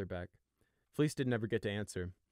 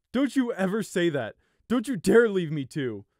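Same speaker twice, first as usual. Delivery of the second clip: loud, high, desperate anger; fierce growl; 10 semitones higher, 13 dB louder than usual. A narrator's reading. Brother clutches his sibling, fiercely growling. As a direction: growl it as a frantic order. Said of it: "Fleece growled into Gossamer's wool".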